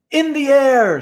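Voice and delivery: put-on high, breezy kid answer; young boy voice. A narrator's reading. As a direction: toss it off like a boy.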